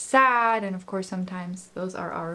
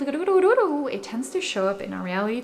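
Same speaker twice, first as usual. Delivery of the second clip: light language; 4 semitones higher than usual. Acted. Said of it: "bring forth some light language".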